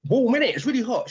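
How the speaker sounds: high, lightly voiced old white woman; a hint of a chatty old Cockney woman; mock old lady. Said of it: "she went".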